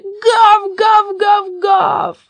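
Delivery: very high, shouted barks; long, ringing high woofs; loud barking. A narrator's reading. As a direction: bark loudly like a pack of dogs. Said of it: "громко залаяли".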